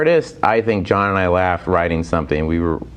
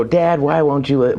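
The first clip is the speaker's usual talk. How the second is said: J C Kasem; 5 semitones higher than usual. Retold or imitated. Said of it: "where I go".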